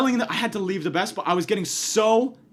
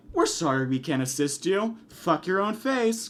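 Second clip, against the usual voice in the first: lower, soft recorded-operator voice; lightly voiced phone robot; automated phone message; 3 semitones lower, 4 dB quieter than usual. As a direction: mimic a polite machine hanging up.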